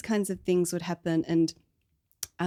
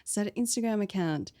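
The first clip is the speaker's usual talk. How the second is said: mocking breezy advice; 5 semitones higher than usual. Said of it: "People think it's so common".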